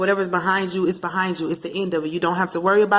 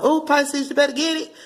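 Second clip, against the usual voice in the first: higher and eager, urging; excited; 8 semitones higher than usual. Real, not acted. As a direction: hype them up.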